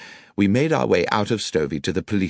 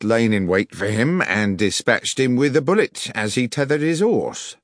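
raised, pompous, condescending policeman; officious police sergeant; 5 semitones higher than usual. Acted. Village sergeant explaining his theory to the detective, pompous. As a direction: spin out the theory self-importantly.

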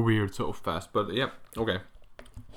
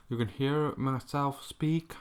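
mouth full; 2 semitones higher, slower than usual. Real, not acted. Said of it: "I'm still eating popcorn".

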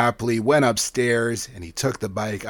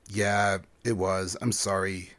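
ashamed confession; 3 semitones lower, 5 dB quieter than usual. Acted. Zev confesses to dada.

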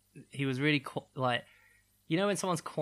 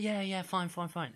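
higher, brushing-off mock reply; dismissive giving in; 5 semitones higher than usual. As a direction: placate him to end the row. Acting out the woman's dismissive reply.

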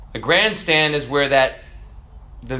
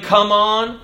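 a lifted, mild mock shout; half-shouted; 6 semitones higher, 3 dB louder than usual. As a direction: beckon from heaven's grandstand.

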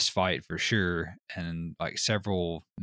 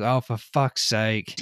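imitating exasperated fiance; slower than usual. Voicing the annoyed Australian fiance.

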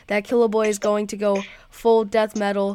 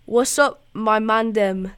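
weak put-on English accent, slow at the end; bad English accent. American host attempts an English accent for UK listeners, lightly done. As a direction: try a London roadman accent and fall short. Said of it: "Now in English accent".

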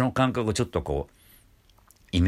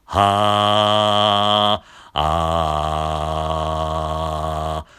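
loud ha with a firm glottal cut; voiced ha with stops; 2 semitones lower, 5 dB louder, much slower than usual. Shown as a demonstration. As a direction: voice the ha and clamp it shut. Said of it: "この閉じた状態で".

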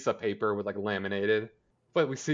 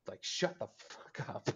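whispered jab; 10 dB quieter than usual. Retold or imitated. Kevin pissed, hushed.

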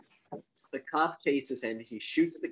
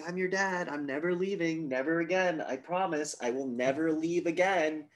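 lightly raised, pleading dad voice; mock earnest promise; 5 semitones higher than usual. Dad bends down to his daughter, mildly put-on earnest promise. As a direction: imitate a dad promising, pitched up a little.

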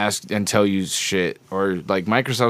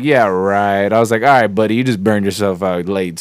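louder, scoffing retort; 5 dB louder than usual. Retold or imitated. Caller retells dismissing a phone scammer, louder and scoffing. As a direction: brush the scammer off loudly.

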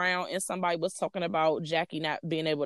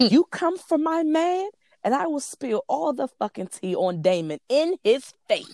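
raised pitch, drawn-out mock confrontation; loud retold threat; 8 semitones higher, slower than usual. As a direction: imitate her calling someone out loudly. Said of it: "was saying that shit loud".

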